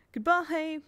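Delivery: high, loud shrill farewell cry; shrill goodbye. Acted. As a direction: call it out shrill and high from the doorstep. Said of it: "Missus Polk shrilled".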